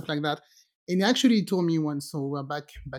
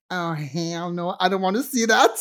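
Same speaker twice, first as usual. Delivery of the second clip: mock refusal. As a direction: stretch the refusal, then rise on the last word. Retold own refusal.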